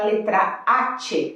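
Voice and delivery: letra H, drawn out slow; slow stress on H. Shown as a demonstration. Teacher stresses letter H slowly for students. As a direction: lean on the H, slowly. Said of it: "prestar atenção é a".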